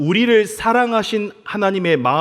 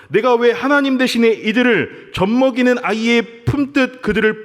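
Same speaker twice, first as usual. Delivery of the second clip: a plaintive complaint that climbs higher as it goes; complaining to God; 4 semitones higher than usual. Retold or imitated. Moses grumbling to God, in a pleading, rising complaint. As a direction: voice Moses' exasperated protest, rising. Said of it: "하나님께 원망하는 거죠".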